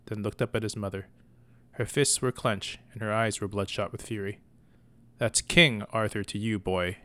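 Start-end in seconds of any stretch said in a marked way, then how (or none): 5.2-7.0 chiding. Acted. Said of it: "she chided him".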